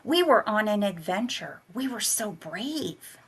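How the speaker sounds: put-on a small girl trying to sound brave; child's proud voice. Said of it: "my voice stronger on land".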